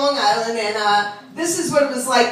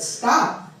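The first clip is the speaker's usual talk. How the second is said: correcting teacher; 4 semitones lower than usual. Acted. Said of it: "I said".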